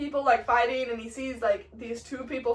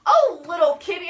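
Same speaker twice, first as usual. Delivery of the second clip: loud, mocking tease; stagey sneering challenge; Mercutio's taunt; 3 semitones higher, 6 dB louder, faster than usual. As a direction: needle your rival like a kitten.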